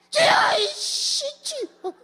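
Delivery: high, loud whiny cry; a scolded boy crying out his prayer; whining boy. Retold or imitated. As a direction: wail it like a scolded kid. Boy cries out after scolding.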